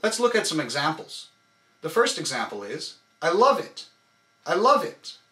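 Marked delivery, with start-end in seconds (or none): 3.2-3.9 love punched from the core, louder and higher; I love it with a hard hit on love; stress on love. Shown as a demonstration. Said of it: "only on love". 4.5-5.2 love punched from the core, louder and higher; I love it with a hard hit on love; stress on love. Shown as a demonstration. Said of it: "only on love".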